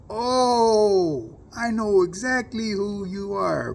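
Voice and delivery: high, loud, slow knowing voice; acted homie. Homie outside the liquor store recognizing him, high and drawn out. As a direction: lean on it like you've finally got him figured out.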